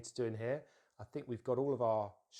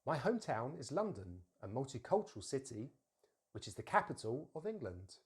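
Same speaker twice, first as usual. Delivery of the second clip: careful teacher's model for repeating; clearly stressed key words, weak "of"; model sentence. Shown as a demonstration. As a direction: say it for learners to copy. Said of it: "I'll say it once and then you".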